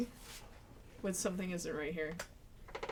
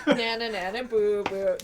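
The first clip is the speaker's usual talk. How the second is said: taunting; 8 dB louder, slower than usual. Acted.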